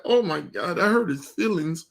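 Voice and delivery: mock-dismayed, sarcastic jab; exaggerated fake concern. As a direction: scoff at his supposedly hurt feelings. Mocking the other man's hurt act.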